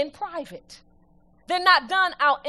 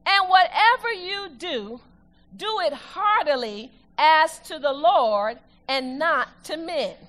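reading scripture aloud; slower than usual. Acted. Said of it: "let's read it together".

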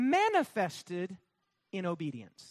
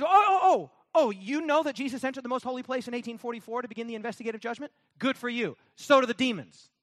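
mocking; 2 semitones higher, 4 dB louder, faster than usual. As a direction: taunt the proud believer with scorn. Mocking the smug believer.

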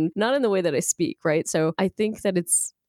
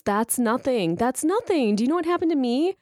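one-upping friend; 5 semitones higher than usual. Acted. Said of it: "one more that doesn't work".

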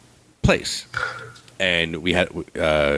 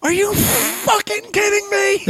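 can't believe she woke him for this; furious disbelief; slower than usual. Retold or imitated. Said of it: "I go".

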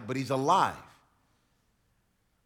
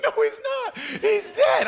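high, mock-whiny insistence; hammed-up high protest; Thomas insisting; 4 dB louder than usual. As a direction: squeal it like a stubborn friend. Thomas insisting Jesus is dead.

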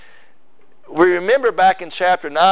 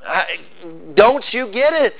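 Jesus frustrated with the disciples; exasperated Jesus; 3 semitones higher than usual. Retold or imitated. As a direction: throw up your hands at them. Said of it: "it's like Jesus is saying".

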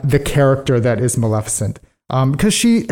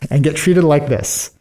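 hammed-up offended old fairy; mock indignant fairy; 3 semitones higher than usual. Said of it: "and she's like".

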